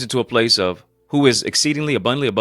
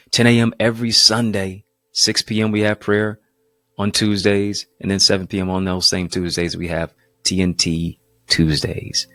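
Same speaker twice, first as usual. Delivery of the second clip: promo read. Acted. Pastor reads his own sponsor promos.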